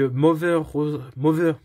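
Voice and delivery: French-tinged English accent on "Mother Rosario", with "Mother" said "Mover"; an English accent that slips on "Mother" as "Mover"; clumsy English accent. Real, not acted. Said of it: "mon accent anglais est pourri".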